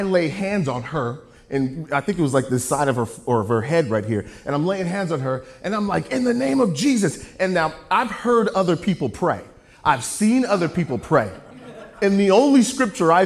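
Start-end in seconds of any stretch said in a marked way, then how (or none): 6.1-7.2 higher-pitched praying voice; acting out a novice's prayer; re-enacted fervent prayer. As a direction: launch earnestly into a mock prayer. Acting out his prayer over the girl.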